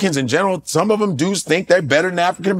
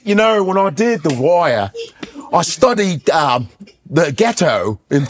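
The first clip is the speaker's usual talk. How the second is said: British accent in a mock interview; Idris Elba. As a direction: imitate a British actor's own accent. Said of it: "And then I'm watching B B C".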